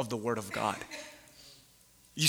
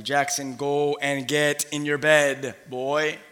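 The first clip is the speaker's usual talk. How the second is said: tired dad; much slower than usual. Retold or imitated. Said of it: "I know exactly what Eli's going through".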